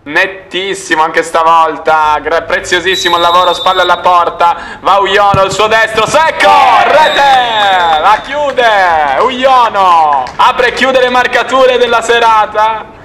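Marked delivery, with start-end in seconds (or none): 4.8-13.0 breathless italian goal commentary. Real, not acted. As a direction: punch out the final goal. Final goal call.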